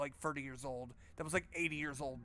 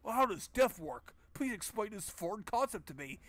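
high, clueless cartoon alien voice; 3 semitones higher than usual. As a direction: play the hero as a baffled alien. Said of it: "He's like a cartoon alien".

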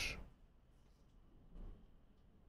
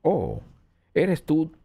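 mock surprise; 9 semitones higher, slower than usual. Host pretends to recognise the caller, playfully surprised and high. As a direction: pitch leaping up in recognition.

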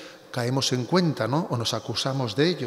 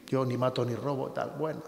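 softer, throwaway echo of the cliché; dismissive mock quote; 7 dB quieter than usual. Priest repeating the hollow phrase, softer and dismissive. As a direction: murmur it back as a hollow excuse. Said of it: "Cuidado con esa expresión".

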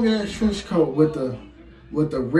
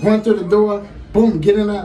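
mock panic yell; 5 semitones higher, 6 dB louder than usual. Bursting into apartment in panic.

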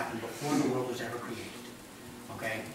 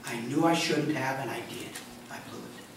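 soft, hushed admission fading to a whisper; honest confession; 8 dB quieter than usual. Retold or imitated. Believer admits sin to God, hushed and honest. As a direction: confess it quietly, no excuses. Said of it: "coming before him honestly and saying".

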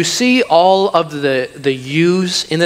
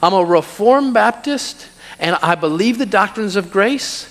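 higher, mock-proud boasting; smug Reformed Baptist; 4 semitones higher than usual. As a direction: show off your doctrine, lightly mocking. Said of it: "let's get a little more refined".

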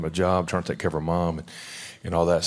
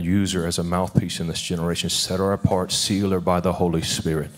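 steady, earnest pastor's prayer over someone; fervent prayer. Acted. Pastor praying over Jasmine with hands laid on her, fervent prayer voice. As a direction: speak blessing over her like a minister.

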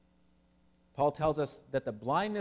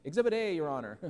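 courtroom lawyer; 3 dB louder than usual. Retold or imitated. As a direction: announce it to the judge like a mock prosecutor. Courtroom lawyer presenting evidence.

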